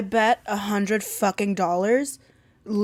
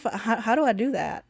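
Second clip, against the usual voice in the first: ordinary delivery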